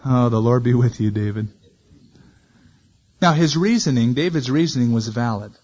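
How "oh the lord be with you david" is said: heartfelt prayer. Shown as a demonstration. Preacher voicing Saul's blessing to David as sincere prayer. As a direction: bless him as if truly praying. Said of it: "A real prayer at this point".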